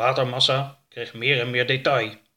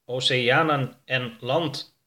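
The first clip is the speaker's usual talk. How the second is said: slow, even spaceship computer voice; spaceship repeating; slower than usual. Acted. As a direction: echo it back, slow and level. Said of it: "herhaalde E S M C kwadraat".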